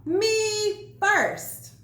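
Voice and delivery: high, loud shriek. A narrator's reading. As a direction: shriek it at full gallop. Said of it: "Pinkerton shrieked".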